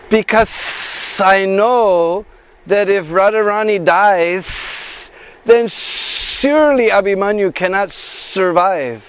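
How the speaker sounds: very slow, drawn-out serpent voice with long pauses; snake voice. Acted. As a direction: stretch every word like a great snake speaking. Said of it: "imitate the voice of that snake".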